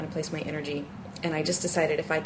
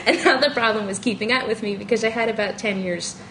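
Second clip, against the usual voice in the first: laughing; 4 semitones higher, 3 dB louder than usual. Real, not acted. Laughing through sex confession.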